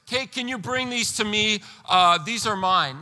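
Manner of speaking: light, offhand ask with a shrug in it; casual request. Retold or imitated. Pastor shows the people a casual claim, lightly offhand. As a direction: toss it off like a small favor. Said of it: "It's not just".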